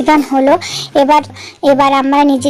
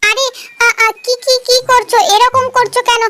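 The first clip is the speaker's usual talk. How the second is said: high-pitched frightened pleading; panicked; 6 semitones higher than usual. Acted. Dragged around by a wild dance partner, panicked pleading. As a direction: beg her to stop, high and scared. Partner flings him while dancing.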